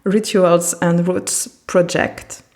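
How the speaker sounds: slow, careful English title in a French accent; English read with a French accent. Real, not acted. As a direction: spell out the English name slowly with a French accent. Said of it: "désolée pour mon accent".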